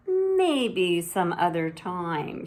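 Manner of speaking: slow, firm brush-off; big sister backing away from scissors; hasty dodge. Acted. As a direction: put it off politely. Zelda dodges.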